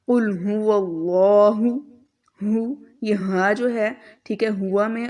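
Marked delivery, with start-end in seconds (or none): 0.1-1.7 कुल हुवल्लाहु with a heavy, full lam and the ज़बर stretched long; heavy lam, long vowel. Shown as a demonstration. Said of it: "इसको थोड़ा लंबा भी करेंगे". (कुल हुवल्लाहु में मोटा लाम और लंबा ज़बर)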